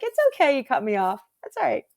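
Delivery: hammed-up gracious reassurance; mock forgiving. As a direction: forgive the driver sweetly. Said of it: "or, like".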